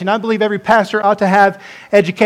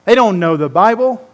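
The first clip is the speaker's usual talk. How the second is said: contemptuous dismissal; 3 dB louder than usual. Retold or imitated. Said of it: "That's what they're saying there".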